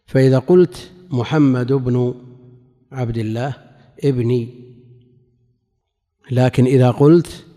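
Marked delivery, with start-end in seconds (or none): 1.1-4.5 محمد بن عبد الله ابني with ibnu, then a genitive ibni; case endings shown. Shown as a demonstration. Teacher shows students ابني following the word before, case endings sounded. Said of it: "فهي تابعة لما قبلها".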